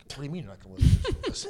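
fast, laughing, incredulous question; half-laugh it out in disbelief. Retold or imitated. Incredulous reply to teammate's refusal.

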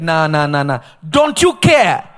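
panicked disciples. Acted. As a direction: plead in fear over the storm.

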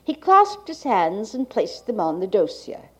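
like a 1980s archival tape. Real, not acted. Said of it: "the cassette holding the speaker's reading".

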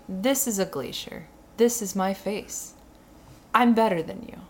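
slow, understated mock smugness; deadpan selfie-taker. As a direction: recite the boast slowly and softly, like a quote. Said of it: "you're saying".

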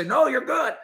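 high, light mock reassurance "No, you're good". Host mimics the official who never answered, high mock reassurance. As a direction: squeak it out like a cheery official. Mocking what official should say.

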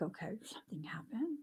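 hushed whisper to herself. Retold or imitated. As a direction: whisper it as a worried aside. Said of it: "So I'm like".

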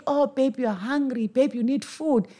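lightly voiced attentive parent; mirroring parent. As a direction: croon the baby's need back to them. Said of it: "when you're screaming and you're crying".

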